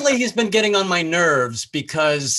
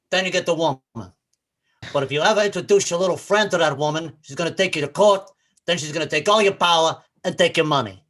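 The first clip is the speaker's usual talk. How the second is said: lightly voiced movie gangster parody; Scarface. Comic reshoots the gangster's speech for today, gangster impression. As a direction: lecture them in a mild gangster accent. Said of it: "If they were gonna do that scene again".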